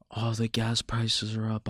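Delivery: mild, resigned grumble; half-hearted complaint in someone else's words; mock complaining. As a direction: imitate someone moaning, lightly. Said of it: "bitching, moaning, and complaining like".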